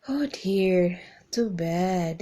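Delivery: breathy, whispered condolence; hushed sympathy. Shown as a demonstration. Teacher whispering sympathy over bad news. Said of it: "you can say".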